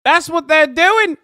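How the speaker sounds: slow, loud, high Aussie drawl; hammed-up Aussie accent, slow and loud; mock Aussie accent. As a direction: drag it out like a ranting Aussie. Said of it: "the sneaky Aussie accent".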